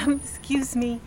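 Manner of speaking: embarrassed laughing excuse me; laughing apology. Retold or imitated. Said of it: "and I keep saying".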